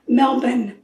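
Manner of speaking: Melbourne as MEL-bun, no r heard; local pronunciation. Shown as a demonstration. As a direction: reduce the end of Melbourne to a quick bun. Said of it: "is the way they pronounce it".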